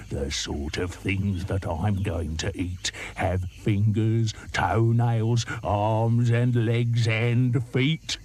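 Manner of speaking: slow, relishing crocodile; menacing croc. Acted. Crocodile relishes his menu to the monkey, slow. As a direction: savour each body part.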